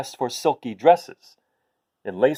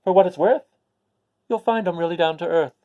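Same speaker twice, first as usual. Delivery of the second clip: smiling maid; 4 semitones higher, faster than usual. Acted. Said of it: "Then smiling said".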